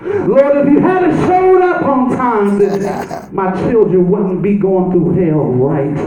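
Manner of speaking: mild pleading lament, not real tears; understated tearful prayer; Mary's crying plea. Acted. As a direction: plead with the Lord, near tears. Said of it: "She's crying".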